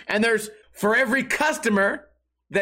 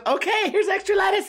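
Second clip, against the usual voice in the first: very high, giggly woman imitation; mock sandwich lady; 11 semitones higher than usual. Sandwich lady indulging lettuce boy, high giggly mock voice. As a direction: squeal it through mock laughter.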